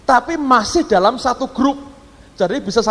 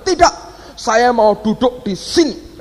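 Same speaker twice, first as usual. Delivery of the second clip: imitated angry outburst; 3 semitones higher, slower than usual. Foreign passenger refuses to move seats, imitated angry outburst. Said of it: "Ngamuk, dia bilang".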